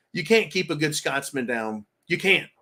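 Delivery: a light mock Scottish brogue on "Scotsman"; understated imitation of a Scottish brogue. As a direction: say it like the Scotts fertilizer man, a hint of Scottish accent. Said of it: "he speaks with a Scottish brogue".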